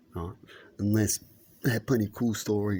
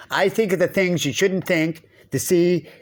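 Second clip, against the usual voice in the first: lightly voiced inner twin, higher and louder; the other twin; 5 semitones higher, 5 dB louder than usual. Voicing the inner twin who challenges you, lightly acted. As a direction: play the mischievous other voice in your head, only a hint of a character. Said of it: "he's the one that goes".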